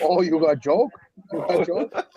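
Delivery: East Asian accent. Shown as a demonstration. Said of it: "can you speak in your best, uh, Asian accent".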